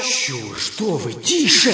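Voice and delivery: шипящее одёргивание вполголоса, последнее слово резче; заставить замолчать шёпотом; одёргивая. Acted. Одёргивает смеющегося спутника. (тихо одёргивает)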